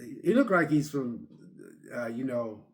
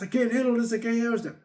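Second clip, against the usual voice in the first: high, frantic mock panic; imitating someone losing it; panicky; 6 semitones higher, faster than usual. Retelling a walker's panic, high mock fright.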